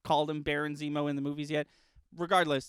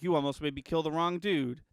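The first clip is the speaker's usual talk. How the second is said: weak Wakandan accent imitation; half-hearted Black Panther accent; Black Panther impression. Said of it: "the worst Black Panther impression anyone has ever done".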